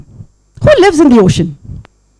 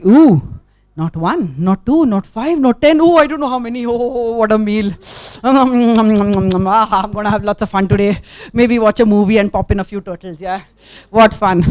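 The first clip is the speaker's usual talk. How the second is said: greedy eagle; 2 semitones lower than usual. Acted. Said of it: "it looks down and says".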